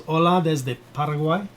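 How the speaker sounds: put-on reading a greeting in a Spanish accent; light Spanish accent, cheerful. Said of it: "Good job on that accent".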